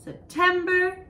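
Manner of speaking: September sung out high; high model word. Shown as a demonstration. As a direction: lift September up high for kids. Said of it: "Can you say September?".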